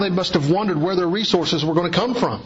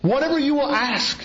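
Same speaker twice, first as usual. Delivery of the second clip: voicing Jesus; 7 semitones higher than usual. Preacher voicing Jesus' promise.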